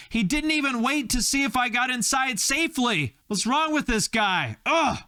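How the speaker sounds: high, hammed-up jilted date; indignant outburst. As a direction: wail your outrage in a high voice. Acted jilted date complaining at the door.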